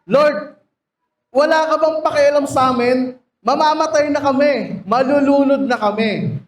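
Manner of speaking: frightened disciples shouting over the storm; panicked plea. Acted. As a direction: beg the Lord as the boat sinks.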